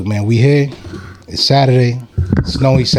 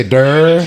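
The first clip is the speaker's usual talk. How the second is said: higher-pitched questioning "durr"; imitated grunt; 4 semitones higher than usual. Host checking the comedian's army cry, imitated grunt. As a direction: mimic the grunt back as a question. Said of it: "What do you say?".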